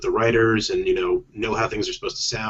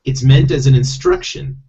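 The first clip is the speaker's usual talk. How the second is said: lightly voiced talking toad; a hint of a legal-minded toad; 3 semitones higher, 5 dB louder than usual. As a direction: explain as a mildly put-on toad character. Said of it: "skipping from that character to Toad".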